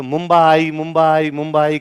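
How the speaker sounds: मुंबई stretched as "mum-BAA-i"; मुंबई drawn out to show Mumba plus Aai; name in transition. Shown as a demonstration. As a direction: repeat मुंबई with a long middle "aa". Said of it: "नाम change हो जाते हैं".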